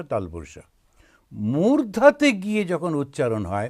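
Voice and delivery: normal talking voice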